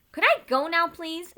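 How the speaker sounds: high, pleading-impatient ask. A narrator's reading. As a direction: sigh it out, itching to leave. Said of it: "she said impatiently".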